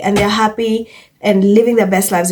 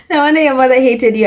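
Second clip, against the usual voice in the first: faster and punchier, savouring it; gleeful repeat; 4 semitones higher, faster than usual. Real, not acted. Vlogger repeating a comment she loves, gleeful. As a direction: relish every word of it.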